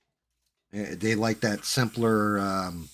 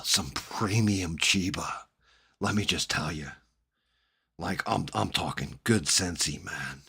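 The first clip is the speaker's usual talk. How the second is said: put-on Jersey accent; 4 semitones lower, 4 dB quieter than usual. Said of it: "talking in a fucking Jersey accent".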